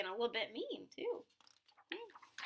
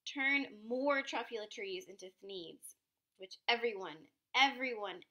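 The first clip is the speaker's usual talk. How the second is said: mock yell; 4 dB louder than usual. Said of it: "I yelled at the Lorax".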